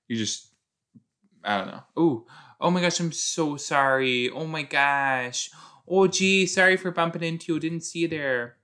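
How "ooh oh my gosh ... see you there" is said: lightly acted gushing apology; mock apology. Student apologizes for bumping into someone, lightly hammed-up. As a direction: play a stretched-out, sing-song sorry.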